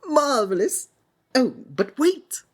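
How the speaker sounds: high, bright showman's cry; delighted. Acted. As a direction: burst out with theatrical delight.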